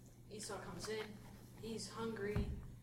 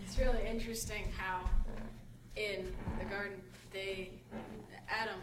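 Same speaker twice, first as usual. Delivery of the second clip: louder, projecting to the room; speaking up; 6 dB louder than usual. Real, not acted. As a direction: speak up so everyone hears. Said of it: "Speak up, sir".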